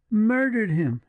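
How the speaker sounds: high, shocked cry of horror; horrified exclamation. A narrator's reading. Julia horrified at the partisan's tale, crying out. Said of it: "exclaimed Julia".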